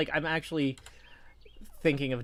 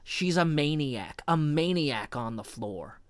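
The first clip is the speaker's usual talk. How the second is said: dramatic lyric reading; 4 semitones lower than usual. Acted. Recites song chorus dramatically.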